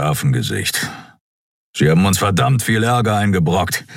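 lightly voiced gruff grump; a touch of surly bluntness; grumpy Keru character. Plays grumpy Keru's farewell speech.

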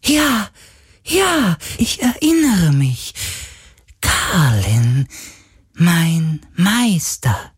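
very high, delighted ghost voice; a spirit lighting up with memory; high joyful spirit. A narrator's reading. Spirit greeting Galen as master, high and delighted.

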